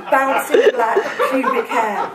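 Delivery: giggling through the words; can't hold back laughter; laughing. Real, not acted. Reader cracks up reading.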